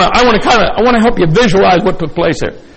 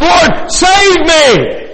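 desperate cry for help; 6 semitones higher, much slower than usual. Retold or imitated. Preacher acting out sinking Peter to the church, slow shouted plea. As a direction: cry out as the waves close over you.

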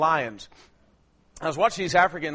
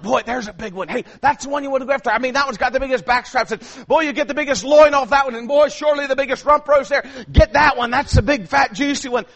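excited urging; 6 semitones higher, 7 dB louder than usual. Retold or imitated. Urging the lions on while watching.

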